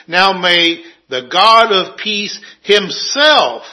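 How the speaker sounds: slow reading, "himself" given the weight; stress on himself. Shown as a demonstration. Preacher reading scripture to congregation, emphasizing "himself". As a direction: read it slowly and lean on "himself". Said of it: "And I emphasize the word himself".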